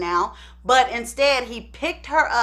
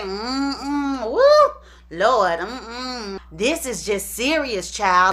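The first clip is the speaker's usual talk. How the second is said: dismayed mother; 2 semitones lower, much slower than usual. Retold or imitated. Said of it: "So Ederline goes on to say".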